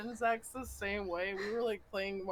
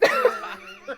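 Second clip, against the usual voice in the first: words squeezed out through a big laugh, higher and louder; cracking up at the friend's bathroom snaps; 11 dB louder than usual. Real, not acted. Telling her friend about the snaps, laughing hard.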